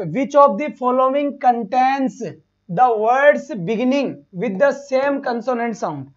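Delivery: slow, deliberate question reading. Shown as a demonstration. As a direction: drag each word of the question out slowly.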